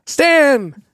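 high, loud mad-scientist shout; Doc Brown. Acted. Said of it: "pretty good Doc Brown impression".

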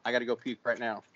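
soft, drained retold reply; understated sick-man voice; queasy, subdued. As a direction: keep it quiet, stomach turning.

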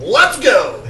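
imitating Devin. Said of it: "And as Devin said".

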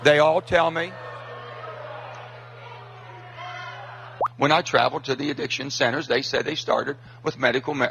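recorded clip. Real, not acted. Clip of senator at town hall.

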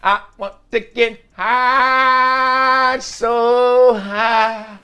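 sing-song hype about getting high; high energy. Real, not acted. Host hypes his listeners up, high energetic voice. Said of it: "That energy on high today".

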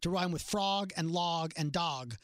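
dog said like "dawg" to rhyme with frog, slowly; mock rhyme demo. Shown as a demonstration. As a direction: drag out frog, log and dog. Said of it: "pronounces D O G as dog".

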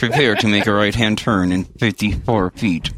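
flat sat-nav announcement; robot voice. Shown as a demonstration. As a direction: announce the turn like a GPS robot. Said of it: "It's my robot voice".

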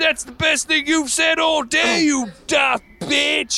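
put-on drunken, slow hollering; rowdy shout. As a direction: bellow it approvingly.

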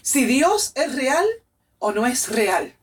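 high, impassioned, as if crying; retold tearful declaration. She confesses her new happiness to her boyfriend, tearfully impassioned. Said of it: "Y lloraba y lloraba y le decía".

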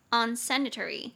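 unsanitary with the beat on SAN; un-SAN-itary, second syllable stressed. Shown as a demonstration. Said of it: "重音节在第二音节".

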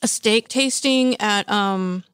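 talking with mouth full. Real, not acted. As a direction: speak through a mouthful of steak. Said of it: "Yes, I'm speaking with my mouth full".

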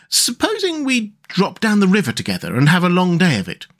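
high-pitched enthusiastic storybook animal; rhapsodizing Rat, carefree. Acted. Rat persuading Mole to boat all day, high and carefree. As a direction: rattle on about the charm of boats. Rat's long speech to Mole.

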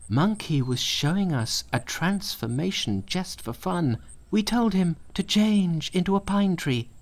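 high, anxious pupil explaining; smooth over the master's anger; lightly voiced nervous disciple; apologetic pupil. A narrator's reading.

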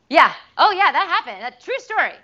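high, laughing admission; giggling confirmation. Real, not acted.

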